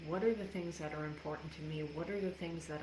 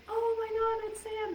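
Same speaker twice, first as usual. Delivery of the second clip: much higher, louder joyful cry; excited mom; 7 dB louder than usual. Retold or imitated. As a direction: mom shrieking with relief, high and bright. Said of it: "she's like".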